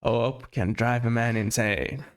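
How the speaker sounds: slow, lightly imitated movie line; Morgan Freeman. Co-host continues the Shawshank quote, slow light impression. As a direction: draw it out like a measured film quote. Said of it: "And then Morgan Freeman says".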